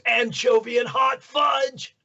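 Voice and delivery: high, gleeful announcement, words stretched; excited cartoon shout. Voice actor announcing Michelangelo's favorite pizza, high excited shout. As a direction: belt it out like a cartoon hero.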